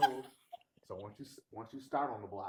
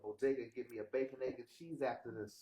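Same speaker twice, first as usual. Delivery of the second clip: put-on New York accent; faster than usual. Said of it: "A little Philly in there".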